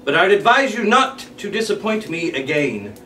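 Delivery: villain threat. Acted.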